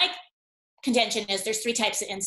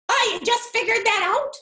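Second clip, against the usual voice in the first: much higher, amused clerk on the phone; a lightly voiced amused shop clerk; store clerk voice; 12 semitones higher, 3 dB louder than usual. Retail clerk on the phone teasing the analyst, higher and amused.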